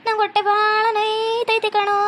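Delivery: ನಂಗೆ ಹೊಟ್ಟೆ dragged out in a slow mock groan; milk the complaint slowly; slow fake moan. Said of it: "ನಾನ್ ಈ ಥರ ನಾಟಕ ಮಾಡ್ತಿರೋದು".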